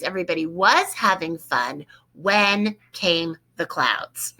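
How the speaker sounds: was stretched and leaned on; stress on was. Shown as a demonstration. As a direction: slowly mark the past tense on was. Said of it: "we want it in the past tense".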